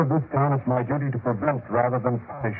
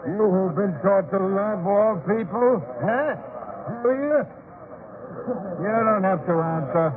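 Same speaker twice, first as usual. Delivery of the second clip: higher and higher, goading him; mocking taunt; 5 semitones higher than usual. Elder taunting the travelers about the mob, mocking rising jeer. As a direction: needle him with each question.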